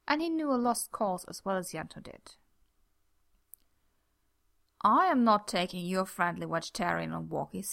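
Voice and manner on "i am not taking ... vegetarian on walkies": insistent. Acted. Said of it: "he said, insistent".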